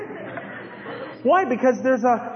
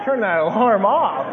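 low, soft, drowsy voice; groggy sleeper snuggling the pillow; sleepy mumble; 6 semitones lower, 4 dB quieter than usual. Retold or imitated. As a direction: murmur as if half asleep in bed. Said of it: "I find myself just".

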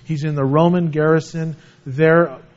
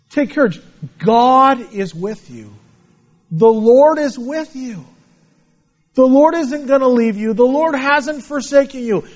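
reassuring preaching; 5 semitones higher than usual. Real, not acted. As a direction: encourage the congregation earnestly. Preaching comfort to hearers.

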